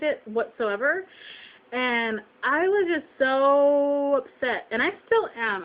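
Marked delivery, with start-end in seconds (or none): 1.7-5.6 upset, dragging out the "so"; slow, heavily stretched emphasis of real upset. Real, not acted. Shopper venting to viewers about the butcher, upset. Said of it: "I mean, I'm upset".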